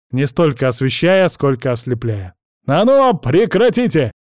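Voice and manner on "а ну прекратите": loud, high sharp command; barked order. A narrator's reading. Teacher barks at screaming boys in the cave, loud and sharp. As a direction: cut the noise with a shout. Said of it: "гаркнул я".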